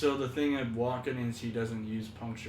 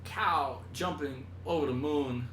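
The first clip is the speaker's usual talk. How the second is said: Chief Wiggum impression. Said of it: "he was on The Simpsons".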